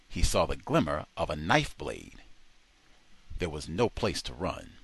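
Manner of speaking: ordinary delivery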